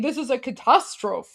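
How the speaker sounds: catastrophe mocked as "kuh-TAH-strofe"; imitated mispronunciation. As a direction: imitate him saying catastrophe with no final "-fee". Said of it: "Because he is saying".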